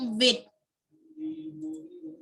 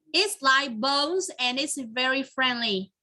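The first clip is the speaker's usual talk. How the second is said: slow reading; slower than usual. Shown as a demonstration. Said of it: "hãy tìm ra cái con vật".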